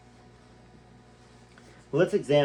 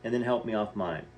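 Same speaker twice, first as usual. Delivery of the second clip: reading a memoir aloud, lightly voiced; story reading. A narrator's reading. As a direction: tell it like a story read to listeners. Reads memoir passage aloud.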